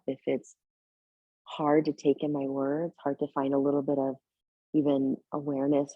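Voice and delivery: gentle meditation guidance with long pauses; unhurried, settled yoga-teacher voice, leaving space between phrases; guided meditation. Real, not acted. Leads a seated breathing meditation.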